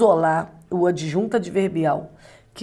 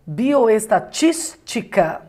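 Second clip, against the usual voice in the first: Bioestatística drawn out slowly, syllable by syllable, leaning on the stressed "tís"; teacher pointing out the stressed syllable of Bioestatística; slow stress demo; 3 semitones higher, much slower than usual. Shown as a demonstration. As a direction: spell out Bioestatística slowly to show where the stress falls. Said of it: "é uma proparoxítona".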